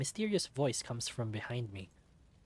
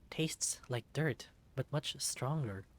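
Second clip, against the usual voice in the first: woozy; slower than usual. Acted. Poisoned, dizzy.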